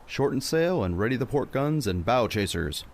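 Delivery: calling orders across the deck; shouted order. Acted. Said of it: "Carver shouted".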